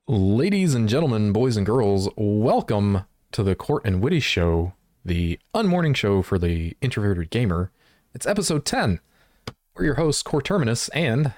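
radio host announcer voice; ringmaster. Acted. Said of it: "You got the radio voice".

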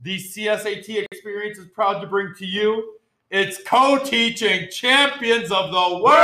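booming ringmaster announcement. Acted. Circus-style intro of the co-teachers.

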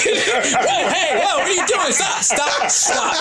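laughing. Retold or imitated. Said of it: "retold reaction during sex".

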